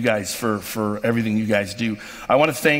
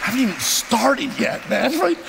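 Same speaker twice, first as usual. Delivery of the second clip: getting emotional; 12 semitones higher than usual. Real, not acted. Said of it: "I don't wanna get emotional".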